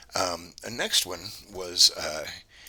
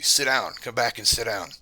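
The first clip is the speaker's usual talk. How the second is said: put-on loud, raised-pitch child's command; weird kid's voice; 5 semitones higher, 6 dB louder than usual. Voice stops wife at the door, loud high kid imitation. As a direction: imitate a bossy strange kid, louder. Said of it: "really weird kid's voice".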